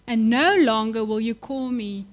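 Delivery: reading scripture aloud, slowed and lifted. Acted. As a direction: proclaim the verse to the congregation. Preacher reads scripture with force.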